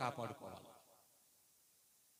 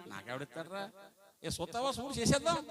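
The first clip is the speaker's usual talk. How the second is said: rising into a higher, louder bawdy offer; worldly man's crude joke; 3 semitones higher, 3 dB louder than usual. Retold or imitated. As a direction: play the unbeliever eager for a bride. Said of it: "ఏమంటాడు?".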